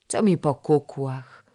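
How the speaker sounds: put-on a slow, sulky boy's hiss through the teeth. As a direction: spit it out through clenched teeth, slowly. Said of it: "syknął przez zęby". (syk przez zęby)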